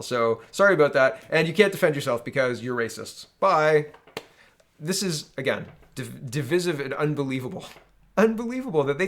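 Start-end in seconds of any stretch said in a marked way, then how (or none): 0.0-3.9 louder, breezy sarcastic brush-off; mock fake apology. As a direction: play the smug platform dismissing them. Mock Yelp voice to business.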